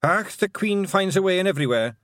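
high Scottish pixie voice; broad, cheeky wee Scotsman; Rob Anybody. Acted. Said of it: "said Rob".

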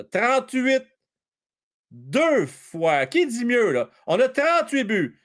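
high auctioneer bid calls. Pretend. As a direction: keep the mock auction going, calling out bids. Mock auction continues. (voix de crieur d'encan, aiguë)

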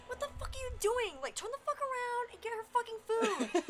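high, loud angry yell; loud reenacted scolding; retold yell. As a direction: bark the order in a mock rage. Retold yelling at coworker.

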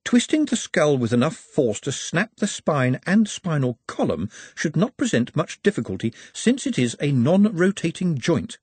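lightly voiced, happy and matter-of-fact; cheerfully clinical. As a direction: explain the gore brightly. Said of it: "he added happily".

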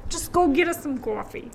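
put-on New York accent on "coffee"; New Yorker accent. Sending co-host for coffee, mock New Yorker accent. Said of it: "New Yorker".

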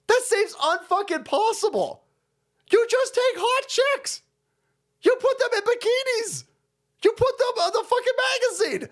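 lampoon a sleazy magazine boss; mock executive. Mocking media executive pitch.

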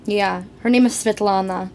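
put-on playful Russian-accented chat. Host telling friends her mother's name in a Russian accent. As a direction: stay in the mock Russian accent. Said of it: "go out of character for a second".

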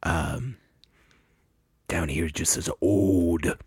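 low, slow, formal pronouncer voice; spelling bee announcer. Pretend. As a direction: announce the word like an official. Pronouncer reads etymology.

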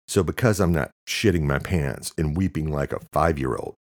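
talking through a mouthful of fries; words round a mouthful of food; mouth full. Acted. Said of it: "Luke said through a mouthful of fries".

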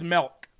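sister's Midwestern "milk", rhyming with elk; "milk" as "melk". Retold or imitated. Quoting his sister, "milk" said as "melk". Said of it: "She also says".

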